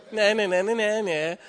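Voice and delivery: loud, high, sing-song nyah-nyah; teasing taunt. Retold or imitated. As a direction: gloat like a kid who won.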